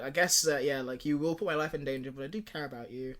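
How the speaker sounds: mildly affectionate, softening at the end; a touch of grudging affection. Retold or imitated. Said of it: "In a very, like, affectionate way".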